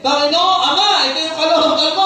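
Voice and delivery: high, emphatic model prayer; prayer tone demo. Shown as a demonstration. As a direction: demonstrate how to petition God out loud. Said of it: "Ito yung tono".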